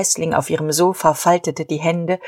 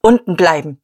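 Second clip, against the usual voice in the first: louder, curt order; commanding; 5 dB louder than usual. Acted. Diederich ordering mother and Guste to stay below, louder command. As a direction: bark it down the stairs. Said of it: "befahl er".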